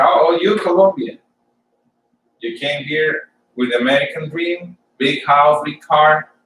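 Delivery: lightly mimicked taunt; mocking. Coworkers taunting an immigrant cleaner, mildly mocking. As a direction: imitate a mocker listing someone's dreams. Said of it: "they were laughing and mocking at me".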